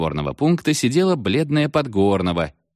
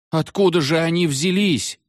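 desperate shout; 10 semitones higher than usual. A narrator's reading. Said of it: "с отчаянием закричал Коля". (закричал с отчаянием)

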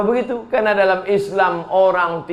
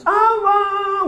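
high-pitched imitation of a weeping wife; mock tearful wail. Wife calling for her dead husband at burial, mock wailing. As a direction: cry out in exaggerated grief. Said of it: "Datang istrinya menangis".

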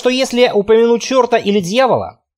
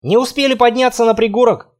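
ordinary delivery, nothing marked

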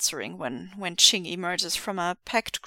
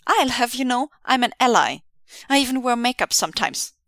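defensive; 2 semitones higher, 4 dB louder than usual. Acted. Defensive continuing.

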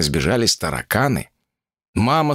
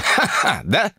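higher gloating villain laugh; evil laugh; 8 semitones higher, slower than usual. Acted. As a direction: laugh in her face. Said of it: "и улыбнулся, обнажив страшные зубы". (злорадный смех)

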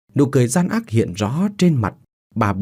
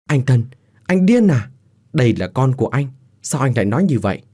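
distressed, pitched-up plea; pleading; 3 semitones higher than usual. Acted. Beaten pregnant wife begging her husband, pleading. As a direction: plead with him in disbelief. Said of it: "cô van xin".

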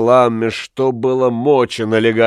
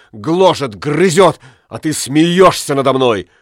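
anguished raving; 2 semitones higher than usual. Acted. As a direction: let the jealousy burn. Jealous husband raving.

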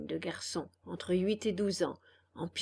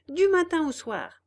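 high, loud, thrilled; gleeful; 8 semitones higher, 6 dB louder than usual. A narrator's reading. Candlewick promising freedom all day long, gleeful. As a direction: savor the freedom.

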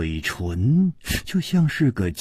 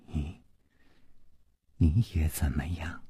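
unvoiced, much softer whisper; 7 semitones lower, 10 dB quieter than usual. A narrator's reading. 熊娘子柔声追问宫南燕，a soft whisper. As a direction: coax it out in a hushed whisper. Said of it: "柔声说".

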